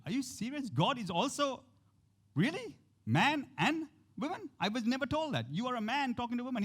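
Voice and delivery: the woman marveling at what she hears; amazed woman. Retold or imitated. Woman amazed, questioning Jesus.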